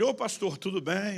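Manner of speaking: high-pitched, bright-rising hail; greeting maître. Retold or imitated. Maître greeting the pastor at his table, hailing. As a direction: call out a greeting, pitch lifted.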